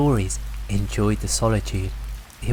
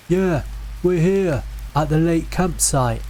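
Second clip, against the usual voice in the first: raised, higher call into the woods; calling back; 6 semitones higher than usual. A narrator's reading. Brother calling back to the voice, raised and higher. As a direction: shout back toward the trees. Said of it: "My brother called back".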